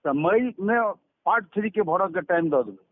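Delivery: ordinary talk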